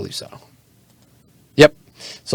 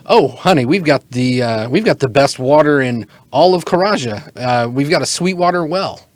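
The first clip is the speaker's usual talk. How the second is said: bartender voice; 2 semitones higher than usual. Acted. Bartender boasting of the water to a customer, lightly voiced. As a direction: play a lightly put-on friendly barkeep.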